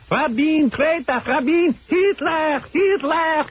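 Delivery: high, slow ranting chant; mock a street protester screaming slogans; imitating protesters.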